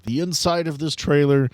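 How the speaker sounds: normal talking voice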